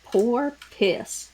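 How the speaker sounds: "Poor piss" split into two words, "poor" stressed; "Poor piss" as a two-word Jersey porpoise. Shown as a demonstration. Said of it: "my New Jersey mouth does not wanna make".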